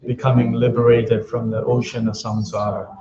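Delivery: even, measured chant-like prayer reading; prayer recitation. Real, not acted. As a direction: recite the prayer steadily, line by line, on a level tone. Recites refuge and bodhicitta prayers.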